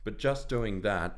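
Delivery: breathless, a little winded; slightly puffed after moving; out of breath. Real, not acted. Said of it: "I'm out of breath".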